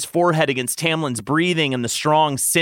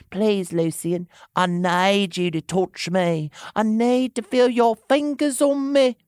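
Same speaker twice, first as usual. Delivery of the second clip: high pleading, climbing higher; begging; 8 semitones higher than usual. A narrator's reading. Tamlin implores the lover, begging. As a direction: plead with rising urgency. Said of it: "he begged".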